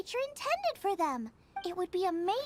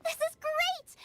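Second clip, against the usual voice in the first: excited; 6 semitones higher, slower than usual. Acted. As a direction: burst out thrilled at the meat. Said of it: "I got all excited".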